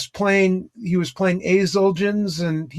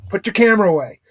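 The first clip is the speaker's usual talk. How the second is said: stern order; 4 dB louder, much faster than usual. Retold or imitated. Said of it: "he got real stern".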